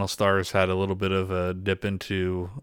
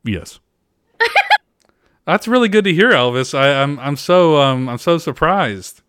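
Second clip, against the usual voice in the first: Impression of a singer. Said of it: "So this is Elvis".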